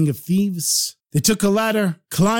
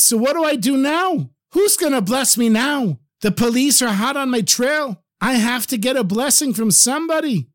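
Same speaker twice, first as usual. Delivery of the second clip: raised, urgent voice of a man in trouble; worried pleading; 6 semitones higher than usual. Acted. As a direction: plead as if out of options. Thief pleads after losing his protector.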